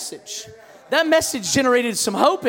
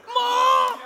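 high, drawn-out cry for mom; mock panicked call; 12 semitones higher than usual. Seventh grader runs to mom after the threat, comic high wail.

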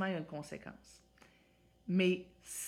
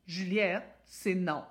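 firm calm voice; 3 dB louder, slower than usual. Shown as a demonstration. Mother setting a calm limit, firm and steady. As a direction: say no firmly without anger. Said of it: "Écoutez mon thème de voix".

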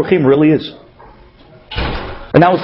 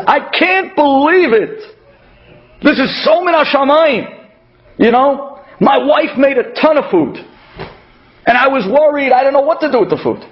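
excited; 4 semitones higher than usual. Retold or imitated. Excited neighbor quoted.

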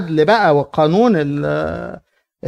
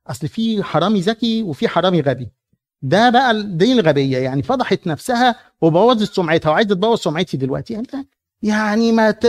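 self-righteous scorn; 5 semitones higher than usual. Acted. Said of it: "بيقول لك".

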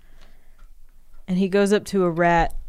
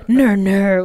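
dopey creature grunt; 8 dB louder than usual. Acted. Grimace grunts to fiance.

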